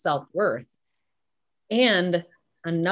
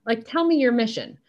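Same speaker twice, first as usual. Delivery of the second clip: retold coaxing challenge; 7 semitones higher than usual. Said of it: "And I'm like".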